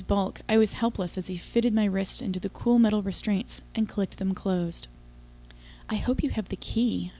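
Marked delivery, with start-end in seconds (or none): 5.9-7.1 breathy secret whisper. Acted. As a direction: whisper it under your breath. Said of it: "I whispered".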